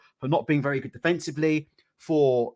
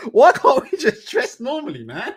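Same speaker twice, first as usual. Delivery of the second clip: higher, louder, half-laughing plea; exasperated plea; 7 semitones higher, 5 dB louder than usual. Real, not acted. Streamer mock-pleading with fighters about outfits, higher and louder. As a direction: beg them to dress normally, mock despair.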